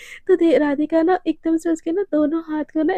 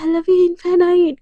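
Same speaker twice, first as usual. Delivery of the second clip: drawn-out, louder declaration of love; gushing affection; 3 semitones higher, 5 dB louder, much slower than usual. Acted. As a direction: stretch it out, lovingly outdoing your partner. Lovers outdo each other's declarations.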